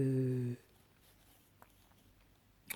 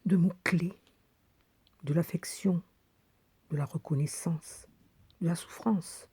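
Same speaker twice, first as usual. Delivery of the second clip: list-like verse with long pauses, building louder; poem recitation; 5 dB louder than usual. Acted. Woman reads poem on need for a friendly ear, building recitation.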